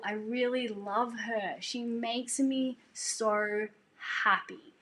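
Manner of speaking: slow, savoured affection; adoring, with lingering drawn-out words; delighted fondness. Retold or imitated. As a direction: stretch the words out with fond delight. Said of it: "like, this happy laugh. He's like".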